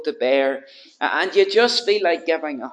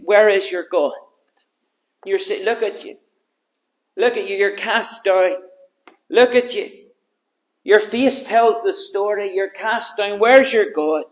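mock the broken man, rising to a shout; taunting enemies; 2 semitones higher, 6 dB louder than usual. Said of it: "are taunting him".

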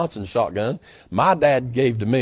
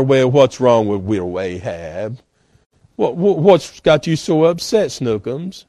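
cooing Jezebel; 2 semitones lower than usual. Retold or imitated. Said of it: "Never fear, Ahab. Jezebel is here".

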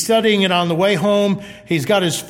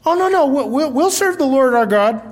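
eager mock protest; 5 semitones higher than usual. People assure Joshua they'll serve, eager and higher. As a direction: gush that of course they'll serve.

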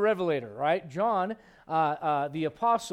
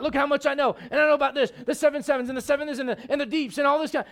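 mock boasting; 6 semitones higher, 4 dB louder, faster than usual. Mock boast of showy Bible knowledge.

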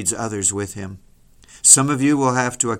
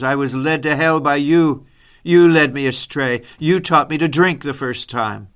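bitter accusation; 3 semitones higher, 4 dB louder than usual. Acted. Damned soul accuses companion in hell.

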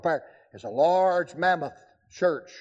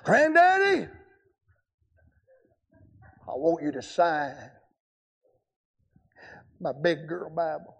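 put-on little girl asking. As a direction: lightly voice a small granddaughter. Child's request voiced in story.

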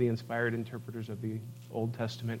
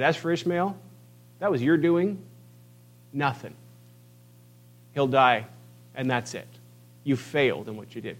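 a cold brush-off, nothing more to say; dismissive rebuke. Pretend. Preacher imagining God dismissing Abraham's son. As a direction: write him off curtly. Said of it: "he could have said".

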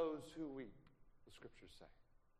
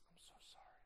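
breathy whispered sorry, barely voiced; whispered apology; 23 dB quieter than usual. To a grieving friend, a soft whispered sorry.

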